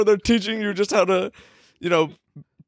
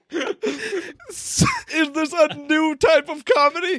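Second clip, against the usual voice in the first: exasperated disbelief; 4 semitones higher than usual. Real, not acted. Exasperated at friend's dull story.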